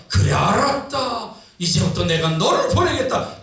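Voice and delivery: lightly acted, drawn-out resigned command; God. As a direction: give in and issue the order slowly. Preacher voices God answering the protest. (천천히 명을 내리는 연기)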